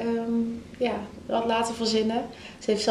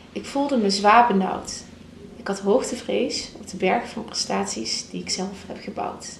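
poem reading. Shown as a demonstration. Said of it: "zou je ons een stukje".

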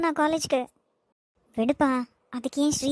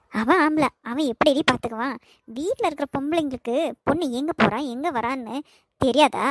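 angry scolding. Acted. Grandmother scolds the women.

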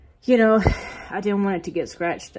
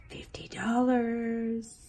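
whispered price, breathy and hushed; 4 semitones higher, 7 dB quieter, much slower than usual. Real, not acted. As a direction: let the price slip out in a whisper.

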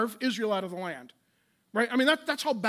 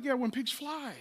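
soft, dry sarcastic yeah; sarcastic brush-off; 6 dB quieter than usual. Retold or imitated. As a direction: toss off "when pigs fly" with a scoff. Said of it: "And he's like".

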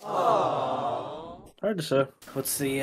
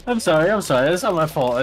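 laughing apology; 6 dB louder than usual. Real, not acted. Laughing apology after fall.

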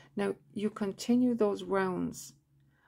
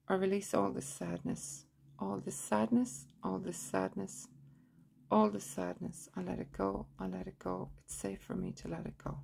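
even recitation, fading softer towards the end; guided release affirmation; 6 dB quieter than usual. Shown as a demonstration. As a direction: repeat it evenly, letting the volume sink. Models a release phrase.

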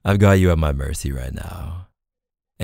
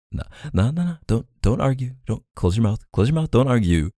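playful bossy orders; 7 semitones higher, faster than usual. Acted.

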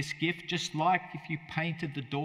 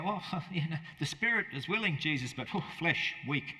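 sleepy disciples' excuse; 3 semitones higher than usual. Retold or imitated. Disciples making lame excuse.

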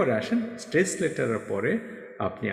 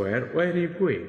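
very slow and pitched higher, words drawn out; slow, raised teaching voice for the past continuous example; slow drill reading, higher; 5 semitones higher, much slower than usual. Shown as a demonstration. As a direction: read the drill slowly, lifting the voice. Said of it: "এইভাবে করে আপনি tense অনুযায়ী".

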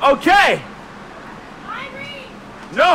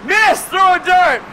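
calling out; 4 semitones higher than usual. Real, not acted. Calling out to audience.

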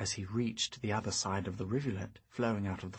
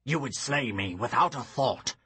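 deep growl; 2 semitones higher, 4 dB louder than usual. Acted. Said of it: "growled the deep voice".

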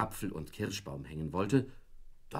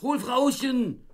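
very high, loud, slow and drawn out; slow drawn-out shout; 6 dB louder, slower than usual. Acted. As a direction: stretch out each word of the order. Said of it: "fürchterliche Drohungen herabstieß".

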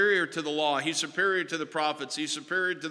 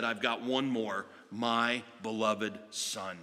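resolute divine declaration; 2 semitones lower than usual. Acted. God telling the people he speaks through his Son, resolute. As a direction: declare the final word. Voicing God's final word.

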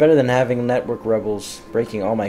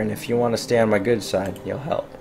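put-on Italian crime-boss accent drifting toward Russian; bad Italian accent. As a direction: play a smooth mob boss in a half-nailed Italian accent. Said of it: "I did not nail the Italian accent".

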